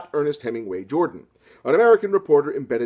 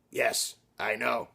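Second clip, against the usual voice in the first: slow, softer smug reply; smug hero; 4 semitones lower, 7 dB quieter, much slower than usual. Acted. Robert answering Maria with slow smug cool. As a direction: savor the self-satisfaction.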